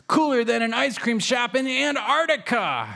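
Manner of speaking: high, changed kitten voice jumping in; Waffles. A narrator's reading. Little brother cat interrupting with a joke, high and cheeky. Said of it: "Waffles interjects".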